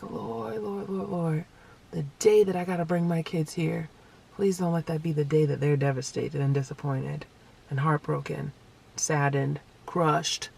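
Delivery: hushed, low-key plea to the Lord; retold pleading prayer. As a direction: pray softly under your breath, imitating yourself. Retold private prayer for her kids.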